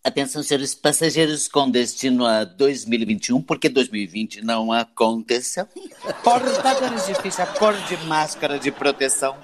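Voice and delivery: flight boarding call voice; airport announcement. Acted. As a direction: announce it over the terminal speakers.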